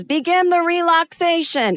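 high, projected instructor's call; mimicking a doctor's announcement; imitated calling out. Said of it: "he is calling out to us".

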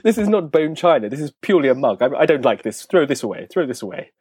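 lightly voiced posh snob; sniffy toff, only just put on.

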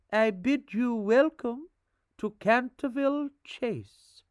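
put-on high, formal old housekeeper; quaint old-fashioned manner. A narrator's reading. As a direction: welcome them like an old servant. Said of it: "said in a quaint, old-fashioned manner".

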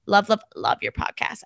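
reading a listener's story aloud; steady read of the letter. Acted. Host reads the listener's letter to co-hosts, steady reading.

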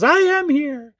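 high, proud cartoon announcement; lightly voiced cartoon character declaring himself; Buddy's big entrance. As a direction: belt it out like a vaudeville entrance. Buddy's cartoon entrance line quoted.

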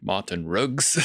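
put-on "Martin Riggs" in a South African accent, R dropped in Martin, Riggs nearer "Ruggs"; South African drug dealer accent. Mimicking the film's drug dealer to the co-host, South African accent. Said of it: "the way the, uh, the drug dealer pronounces".

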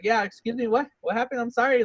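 slightly high, apologetic voice. Acted. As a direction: play up your high speaking voice. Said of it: "I, a high voice".

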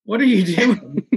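high, slow, honeyed voice of a kind recruiter; sweet Southern lady. Retold or imitated. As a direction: draw her in gently, like a Southern aunt. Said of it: "Heather Spruill said".

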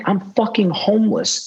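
protesting to sponsor, outraged; exasperated protest. Retold or imitated. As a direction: throw up your hands in disbelief.

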